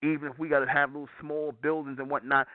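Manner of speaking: ordinary talk, nothing marked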